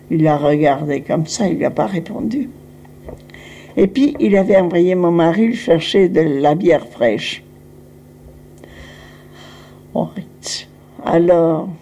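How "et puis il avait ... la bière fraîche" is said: ordinary talk, nothing marked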